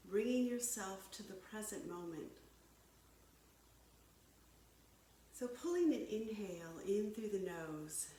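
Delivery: calm, measured yoga-teacher delivery; guided yoga. Real, not acted. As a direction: guide them through breath and stretch, unhurried pauses between cues. Leads breathing and stretching.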